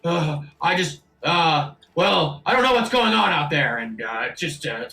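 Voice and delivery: hesitant, faltering character voice; nervous captain. Acted. Captain explaining himself to inspector, nervously hesitant. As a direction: stammer out excuses for hiding. Game master plays the huddled captain.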